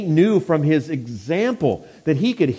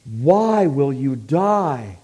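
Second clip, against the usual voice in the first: drawn-out, slow plea; solemn, lingering appeal from God; calling out; much slower than usual. Retold or imitated. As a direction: let the question stretch out slowly. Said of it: "the Lord calls out".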